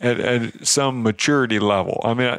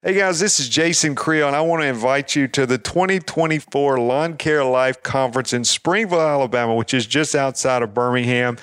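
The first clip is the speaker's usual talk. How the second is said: promo voice. Shown as a demonstration. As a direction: pitch it like a radio promo. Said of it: "here's my promo voice".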